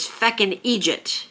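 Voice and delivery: "Egypt" said EE-jit, Irish for idiot; slow "feckin' Egypt", idiot turned into EE-jit; Irish pronunciation. Shown as a demonstration. Teaching viewers an Irish insult, idiot pronounced EE-jit. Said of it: "something they say a lot over there".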